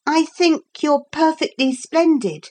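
earnest, high-pitched praise; very serious. A narrator's reading. Lucy offering Philip friendship, very seriously. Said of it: "said Lucy very seriously".

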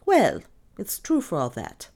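stubborn insistence. A narrator's reading. Maid sticking to her story, stubborn. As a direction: hold your ground stubbornly. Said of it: "insisted Lizzie stubbornly".

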